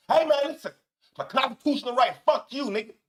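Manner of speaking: a hint of a brash American shouting about his rights; imitating an American. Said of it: "an American will tell you about their rights".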